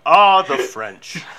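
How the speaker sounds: slow, grand sigh; Orson Welles voice. Retold or imitated. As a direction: savor it like old wine. Imitating Welles ad.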